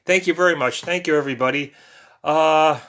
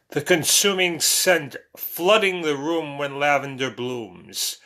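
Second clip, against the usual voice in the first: slow, measured poem reading; lower-pitched, drawn-out verse delivery; poetry recitation; 3 semitones lower than usual. Acted. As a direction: recite it deliberately, leaning on the rhymes. Recites own poem to viewers.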